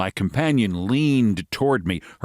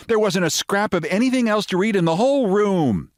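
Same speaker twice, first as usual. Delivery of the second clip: American lady voice; 10 semitones higher than usual. Acted.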